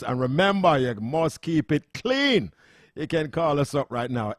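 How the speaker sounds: normal talking voice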